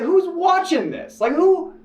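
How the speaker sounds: high, slow, baffled disbelief; incredulous inner voice. Retold or imitated. To himself about who watches the horror cut, high slow disbelief. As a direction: stretch it out, high and slow, as if nobody could enjoy this. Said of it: "And I'm sitting like".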